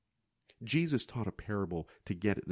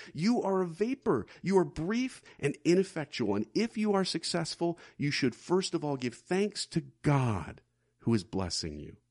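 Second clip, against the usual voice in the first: higher, stern voice of rebuke; stern prophet voice; 7 semitones higher than usual. Acted. Preacher voicing James rebuking the boastful. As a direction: deliver it like a prophet's warning.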